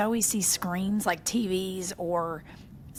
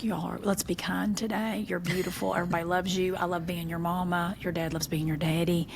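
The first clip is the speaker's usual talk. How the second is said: tender affirmations; 3 semitones lower than usual. Retold or imitated. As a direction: soothe them like a loving mama. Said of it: "they'll sit and I'm like".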